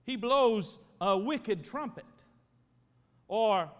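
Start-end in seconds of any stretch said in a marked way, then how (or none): 0.0-2.1 Boston slang quote. Retold or imitated. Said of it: "They'll say things like".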